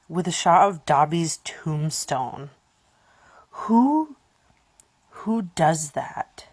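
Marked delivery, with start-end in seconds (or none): 3.5-6.5 whisper. Real, not acted. Shocked by Dobby's tombstone.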